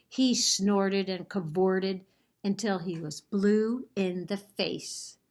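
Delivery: story narration. A narrator's reading. Librarian reading a picture book to children, lively storytelling. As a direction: tell the story to the class with gusto.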